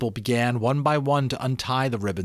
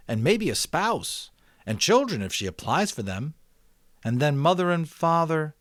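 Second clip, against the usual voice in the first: put-on quick, higher, louder young voice working it out; a boy thinking aloud, picking up speed; eager boy Jonas; 6 semitones higher, 3 dB louder than usual.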